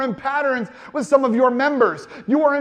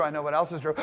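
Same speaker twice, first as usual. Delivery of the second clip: knowing low voice; 8 semitones lower, 8 dB quieter, much faster than usual. Retold or imitated. Repeats the judgment voice.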